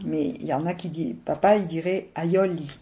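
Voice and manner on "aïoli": aïoli with an open o, Provençal style; papa's Provençal aïoli. Retold or imitated. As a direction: say aïoli like dad, southern open o. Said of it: "Il mettrait un accent".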